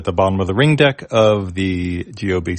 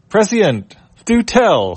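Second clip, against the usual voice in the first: much higher, grand and theatrical; pompous robot mouse; 12 semitones higher, 5 dB louder than usual. Acted. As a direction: play the mouse as a mock-learned snob. Leb's grand reply.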